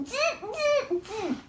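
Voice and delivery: 1 monkey chatter. Acted. Monkeys mock the peddler.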